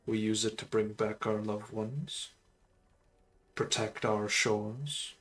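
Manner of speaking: solemn undead sorcerer voice; a measured, brooding lich; lich character voice. Acted. Undead lich tells her backstory.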